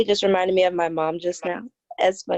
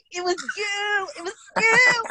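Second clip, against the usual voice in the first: imagined outburst at mom; 12 semitones higher than usual. Retold or imitated. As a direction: fling the blame back, pitched way up. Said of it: "I just wanna be like".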